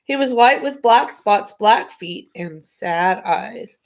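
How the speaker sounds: put-on reading a children's book aloud; story narration. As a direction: read it like a bedtime story.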